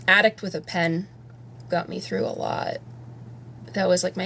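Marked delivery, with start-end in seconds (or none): 1.7-2.8 near whisper. Real, not acted. Soft remark about anxiety song.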